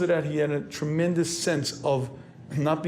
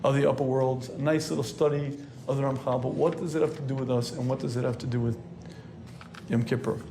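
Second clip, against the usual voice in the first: skeptical listener; 4 semitones lower than usual. Retold or imitated. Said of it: "you may say".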